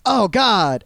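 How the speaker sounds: mildly acted revulsion; mock disgust. Someone tasting awful food before offering it, mock disgust. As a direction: play a bad-taste reaction. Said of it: "make a bad face".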